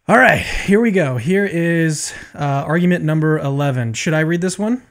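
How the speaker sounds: winded after push-ups; out of breath. Real, not acted. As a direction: talk while still catching your breath. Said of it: "Sorry, I'm still catching my breath".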